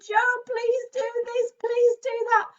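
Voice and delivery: high, slow singsong plea; sing-song the viewers' requests like eager kids; lightly hammed-up chorus of fans asking for things; mock viewers calling out. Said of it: "lots of you are shouting".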